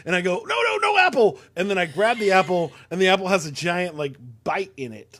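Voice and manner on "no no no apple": loud, high-pitched urgent no; retold parental shout. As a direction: cry out to stop a kid. Parent stopping child, retold.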